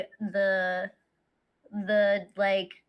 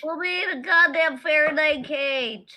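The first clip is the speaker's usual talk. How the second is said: indignant outburst; 5 semitones higher, 7 dB louder than usual. Acted. Player complaining loudly.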